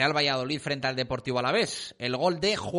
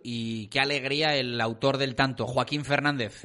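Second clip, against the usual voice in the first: excited; 3 dB louder than usual. Real, not acted. Cheering the winning goal.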